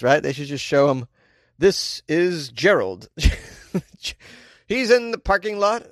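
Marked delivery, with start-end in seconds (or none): 1.6-5.9 put-on ad narrator introducing the hero; commercial voiceover. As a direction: announce it like a TV spot, stretched out. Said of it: "should be on Hot Pocket commercials".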